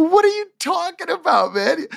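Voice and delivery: very high-pitched incredulous squeal; retold disbelief. Wrestler questions the writer who failed to warn him, incredulous.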